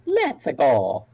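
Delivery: cartoon video-game catchphrase impression; Mario. Player cheers the plan on, mock video-game hero voice. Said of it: "By staggering coincidence, Mario from the Super Mario Brothers is not here".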